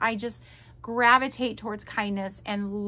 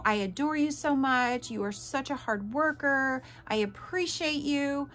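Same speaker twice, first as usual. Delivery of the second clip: imitating gushing messages, higher pitch; mock sweet talk; 3 semitones higher than usual. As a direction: lightly parody a loving text. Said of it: "all the sweet little kind gestures and messages".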